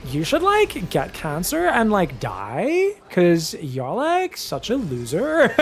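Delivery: put-on slow valley girl voice, rising likes. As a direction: do a sweet valley girl insult. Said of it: "a Valley Girl voice".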